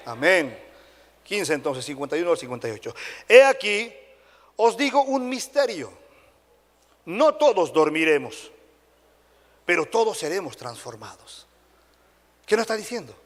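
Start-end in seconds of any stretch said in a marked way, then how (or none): 3.3-11.5 slow, weighty scripture proclamation; scripture reading. Real, not acted. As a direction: read it out solemnly, phrase by phrase. Reads scripture aloud to congregation.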